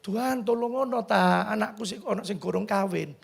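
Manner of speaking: soft, pleading imitation of mother; understated tearful appeal; retold tearful prayer. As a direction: implore God quietly, lightly acted. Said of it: "Mama nangis".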